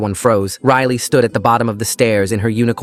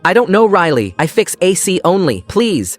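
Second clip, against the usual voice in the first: terrified pleading; 8 semitones higher than usual. A narrator's reading. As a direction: beg in terror, broken English. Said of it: "looked genuinely terrified".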